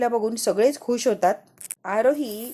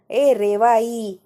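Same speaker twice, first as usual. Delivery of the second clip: louder, very drawn-out call; louder yell; 5 dB louder, much slower than usual. Retold or imitated. Child told to shout louder, drawn-out mock yell. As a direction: stretch the name out in a raised call. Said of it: "अजून जोराने ओरड".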